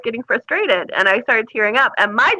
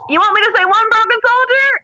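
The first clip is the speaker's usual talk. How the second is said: louder, higher, challenging comeback; defiant retort; 10 semitones higher, 5 dB louder than usual. Retold or imitated. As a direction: throw it back at him. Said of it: "And I was like".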